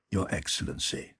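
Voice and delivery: soft, nearly breathed title; quiet, respectful. Acted. Young officer to the prince, murmuring his title respectfully. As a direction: add the title softly, dutifully. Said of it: "speaking so quietly and respectfully".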